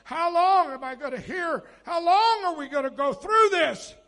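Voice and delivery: rising to a loud, tearful plea; crying out. Retold or imitated. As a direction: beg God how long, voice breaking. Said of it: "Habakkuk cried".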